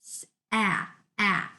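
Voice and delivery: "ah" as the short open A of hat; short a sound. Shown as a demonstration. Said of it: "it's saying".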